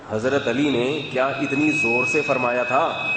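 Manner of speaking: slow, stretched-out question echoing a preacher; incredulous question with long, drawn-out words; mock preacher's loudness. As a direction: draw out "اتنی زور سے" in mild mimicry of pulpit shouting. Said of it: "اتنی زور سے کہا".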